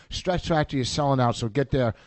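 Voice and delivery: talking while chewing gum. Real, not acted. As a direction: gum in the mouth. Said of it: "I got gum in my mouth".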